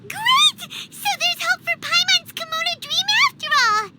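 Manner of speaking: light up completely; overjoyed. Acted. Paimon hearing silk can be imported, overjoyed. Sudden joy.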